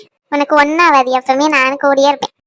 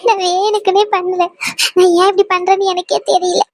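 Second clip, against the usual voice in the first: tearful; 6 semitones higher than usual. Acted. Wife apologising to her husband, tearful and pleading. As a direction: plead through tears. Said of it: "சரி, அழுகாத".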